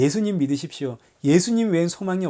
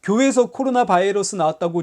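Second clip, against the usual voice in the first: mock indignant protest; 3 semitones higher than usual. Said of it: "아니면 목소리를 높입니까?".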